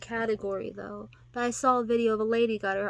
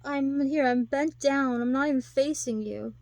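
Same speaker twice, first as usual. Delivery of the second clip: mock helpless woman; 4 semitones higher, 5 dB louder than usual. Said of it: "It's just like".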